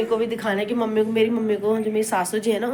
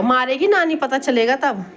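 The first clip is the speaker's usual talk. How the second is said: playful threat; 3 semitones higher, 4 dB louder than usual. Real, not acted. Mock threat to the baby.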